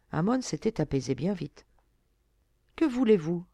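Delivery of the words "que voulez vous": kindly, raised-pitch question. A narrator's reading. Young lord to the fisher girl who disturbed him, kindly. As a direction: ask her with mild kindness. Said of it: "lui dit-il avec bonté".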